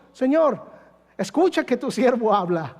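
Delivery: mock the believer who talks instead of listening; insistent, lightly hammed-up demand; demanding prayer. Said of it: "muchas de las veces nosotros venimos".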